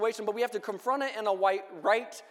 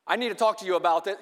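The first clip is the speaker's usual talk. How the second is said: clipped, louder, faster confrontation; mock bitter demand; 4 dB louder, faster than usual. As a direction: barge in sounding bitter, a bit rushed. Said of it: "go in bitterness or wrath or anger".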